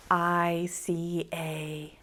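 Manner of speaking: whispered, slow. Shown as a demonstration. Teacher whispers so the kids fill in the word. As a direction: whisper the start, leaving a gap.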